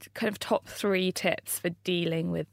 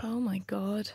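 whispered; 5 dB quieter than usual. Real, not acted. Shocked at email statistic.

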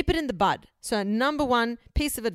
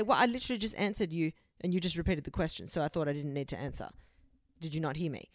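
catty; 4 semitones lower, 6 dB quieter, faster than usual. Shown as a demonstration. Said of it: "It sounds like I'm being really catty and bitchy".

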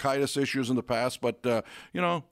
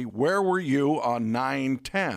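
slow quoted catchphrase; much slower than usual. Retold or imitated. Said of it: "pet phrase always was".

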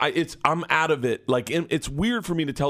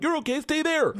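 mock gentle cop. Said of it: "it doesn't sound like".

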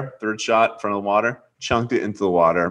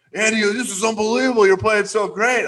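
imitating the caddy; 12 semitones higher than usual. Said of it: "He's like".

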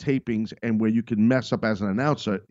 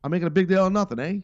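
Seth impression; 6 semitones higher, much faster than usual. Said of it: "I sound like Seth when he's doing the thing".

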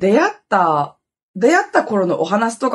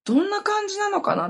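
high, soft livestream undertone; imitated hushed voice; 12 semitones higher, 5 dB quieter than usual. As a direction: reenact talking quietly so nobody wakes, pitched up. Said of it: "小声で喋ってたの". (小声の再現、高めにそっと)

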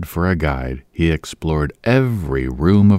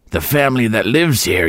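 put-on old woman voice; 5 semitones higher than usual. A narrator's reading. Landlady repeating herself to Boyce. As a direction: mutter it again.

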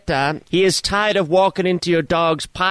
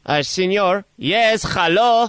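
lightly put-on Spanish-accented English, grumpy neighbour; a hint of a Spanish accent, complaining; lightly voiced Spanish-accented caller; mock Spanish accent. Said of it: "What is that accent?".

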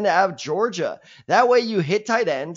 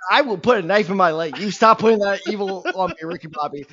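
mock outraged protest; 3 semitones higher, 4 dB louder, faster than usual.

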